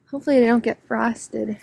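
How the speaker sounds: soft unvoiced whisper; hushed whisper to herself. Real, not acted. Quiet aside while filming flowers.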